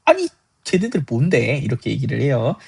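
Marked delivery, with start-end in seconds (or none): 0.0-1.6 drawn-out, higher indignant grumble; mock their resentment, stretching the words; indignant disciples. Ten disciples resenting the two brothers, mock indignation. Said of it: "열 제자가 분개했다고 해요".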